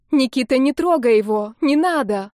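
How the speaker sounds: put-on frightened girl shouting to save her friend; desperate plea. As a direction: beg him to stop, half shouting. Olga throws herself between them.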